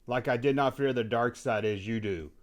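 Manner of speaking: softly spoken, solemn villain declaration; Anakin. Acted. Anakin answers the host about the Hutt, quiet and solemn. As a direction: proclaim it quietly and deliberately. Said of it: "Anakin, what do you think about".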